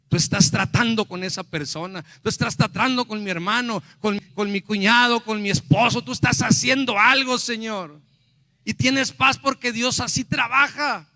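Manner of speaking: loud, rising, insistent prayer-preaching; fervent preaching. Real, not acted. Preacher declares to God He is working, fervent building preaching. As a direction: build in force with each phrase, pleading to God.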